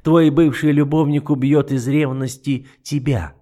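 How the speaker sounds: lightly voiced icy duke, mocking; an understated sneer; a hint of the cold duke. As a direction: toy with her calmly. The duke's cold voice.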